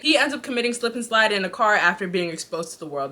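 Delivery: ordinary delivery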